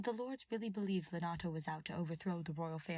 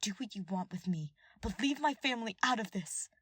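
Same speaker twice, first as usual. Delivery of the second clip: angry plea; 3 semitones higher, 4 dB louder than usual. Acted. Ash pleading angrily.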